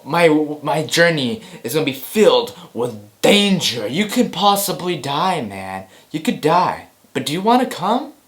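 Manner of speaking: hammed-up movie invite; mock trailer line. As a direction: overplay the danger, then a high casual ask. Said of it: "It's like".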